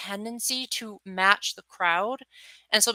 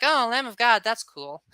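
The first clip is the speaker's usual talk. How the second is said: casual mock shrug; 3 semitones higher than usual. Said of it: "it's just like".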